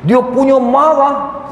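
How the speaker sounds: stretched slow for effect; slow emphasis. Real, not acted. Ustaz stressing to the congregation how angry the officer was, drawn out slowly.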